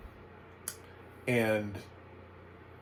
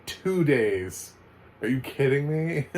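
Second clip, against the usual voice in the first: incredulous; 5 semitones higher, 5 dB louder, slower than usual. Retold or imitated. Scoffing at child services' complaint.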